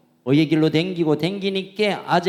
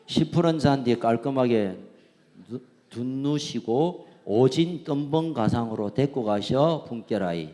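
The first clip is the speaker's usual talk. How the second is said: playful Jeolla dialect psalm reading; 4 semitones lower, 4 dB quieter than usual. Pretend. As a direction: lean into the Jeolla endings. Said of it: "저 내비가 전라도 말입니다". (전라도 사투리로 장난스럽게 낭독)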